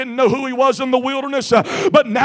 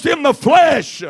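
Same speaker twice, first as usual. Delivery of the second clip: a hint of the devil, raised and slowing; devil's confession; 3 semitones higher, 6 dB louder than usual. Preacher voicing Satan's admission, lightly voiced devil. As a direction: voice the devil conceding, building. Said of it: "almost like the devil was saying".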